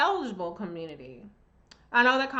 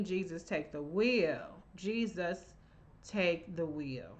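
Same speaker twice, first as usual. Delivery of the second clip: mock plea; 4 semitones lower, 7 dB quieter, slower than usual. Exasperated prayer-like aside.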